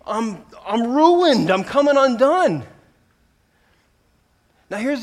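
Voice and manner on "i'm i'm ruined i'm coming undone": loud, high and slow, coming apart; Isaiah's anguished cry. Retold or imitated. Isaiah seeing himself before holy God, loud anguished cry. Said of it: "and he's like".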